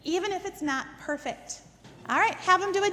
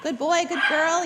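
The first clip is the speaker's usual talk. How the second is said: praise demo; 3 dB louder, slower than usual. Shown as a demonstration. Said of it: "Your praise marks the behavior".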